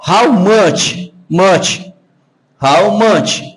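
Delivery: "how much" with closed "mâ" and a "tch" ending; closed vowel. Shown as a demonstration. Teacher puts the sound back into the phrase, closed vowel. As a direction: say "much" as a closed "mâtch", falling. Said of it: "com o som mais fechado".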